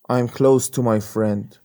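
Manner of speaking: teacher demo, slow, close ends in s. Shown as a demonstration. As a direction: close with a hissing s, said very slowly. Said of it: "بگیم close یعنی نزدیک بودن". (آهسته، close با صدای س)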